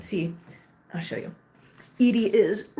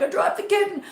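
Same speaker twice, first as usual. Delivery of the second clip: high-pitched mock panic with a laugh in it; retold freak-out; 11 semitones higher than usual. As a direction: re-enact freaking out, pitch jumping up. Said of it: "just freaking out".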